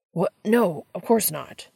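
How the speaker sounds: flustered, slow protest; spluttering denial. Acted. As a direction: caught out, sputter the denial. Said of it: "Sam spluttered".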